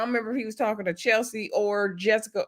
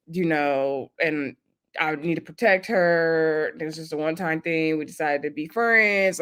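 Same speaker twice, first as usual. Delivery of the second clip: lower, softer mock explaining; imitated defensive boyfriend; 4 semitones lower, 3 dB quieter than usual. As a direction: lightly play him, low and subdued. Acted boyfriend explaining himself defensively.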